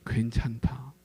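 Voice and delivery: soft whispered reassurance; whispered comfort. Acted. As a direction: whisper it gently. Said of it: "우리에게 이렇게 말씀하십니다".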